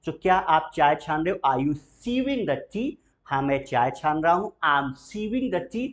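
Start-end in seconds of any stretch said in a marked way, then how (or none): 1.5-2.9 very slow, alms without the L; slow model question. Shown as a demonstration. Teacher models the question and silent L, very slow. 4.6-5.9 slow, clear, word by word; slow model answer. Shown as a demonstration. Teacher models the answer for students to repeat, slow.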